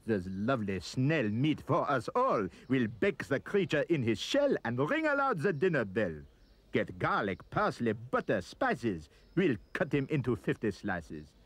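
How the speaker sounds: hammed-up Frenchmen gloating over a feast; mock greedy shouting. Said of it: "The French were shouting".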